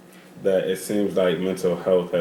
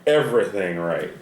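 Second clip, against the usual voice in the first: embarrassed apology through laughter; apologize, laughing and a bit defensive; 4 semitones higher than usual. Real, not acted. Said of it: "I'm sorry, okay?".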